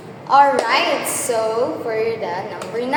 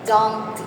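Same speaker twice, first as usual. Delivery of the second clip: "dumpty" with a heavy DUM and a light ty; stress on first syllable; 2 semitones lower than usual. Shown as a demonstration. Teacher sounding out a trochee for the class, stress on the start of "dumpty". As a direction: beat out "dumpty", landing on DUM. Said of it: "stressed syllable followed by an unstressed syllable".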